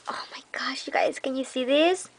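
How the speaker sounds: hushed awed whisper. Real, not acted. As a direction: breathe it out as if not to disturb the paper. Whispering to viewers over gift.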